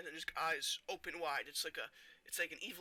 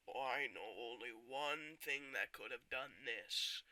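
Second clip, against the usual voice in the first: grim realisation; 4 semitones lower, 3 dB quieter, slower than usual. Acted. Acts Wolverine's grim realisation.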